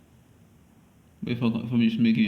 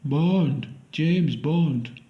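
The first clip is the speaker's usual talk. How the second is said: put-on guessed Russian accent, pitched higher and swooping; 6 semitones higher, much slower than usual. Auditioning for James Bond in a guessed Russian accent. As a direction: improvise a Russian accent with rising-falling words. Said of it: "let me say Russian, Russian accent".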